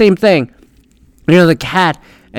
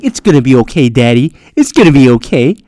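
put-on comforting kid; 3 semitones lower, 3 dB louder than usual. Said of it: "kid coming up and be like".

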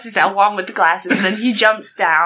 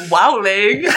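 laughing shout. Acted. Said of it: "he goes".

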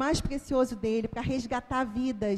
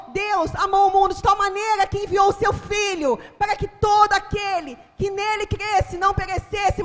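loud, high gospel proclamation; fervent shouted sermon; preaching shout; 8 semitones higher, 7 dB louder than usual. Retold or imitated. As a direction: preach it at full force. Preaching to the family.

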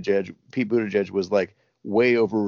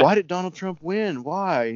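mock interviewer; 10 semitones higher, slower than usual. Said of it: "He's like".

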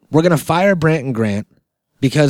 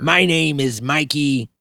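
pirate voice; 3 dB quieter, slower than usual. Acted. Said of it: "I'm dropping the pirate character".

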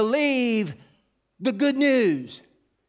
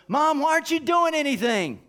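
put-on higher, complaining kid's question; child nagging mother, pitched up; whiny child; 6 semitones higher than usual. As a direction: nag mom like an impatient child.

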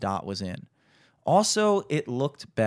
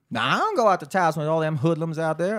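imitated old woman; 4 semitones higher, 3 dB louder than usual. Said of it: "a old woman. She's like".

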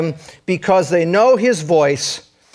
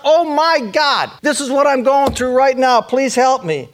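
calling out to God; 6 semitones higher than usual. Pretend. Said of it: "You need to call out".

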